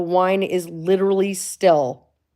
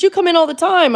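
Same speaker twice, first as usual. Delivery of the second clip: high, louder mock protest; mock manager; 11 semitones higher, 7 dB louder than usual. Vlogger mimicking the store manager, high and protesting.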